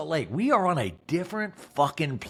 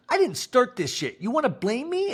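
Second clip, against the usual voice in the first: much higher, indignant mock protest; mock outraged squeal; 9 semitones higher than usual. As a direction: shriek the blame back like a hurt teen. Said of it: "And Monica goes".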